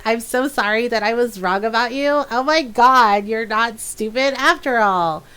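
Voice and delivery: gushing, backhanded compliments; condescending mock praise. Player imitates Solas praising the Inquisitor, condescending mock amazement. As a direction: overdo the apology to mock his condescension. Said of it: "it's so insulting and condescending".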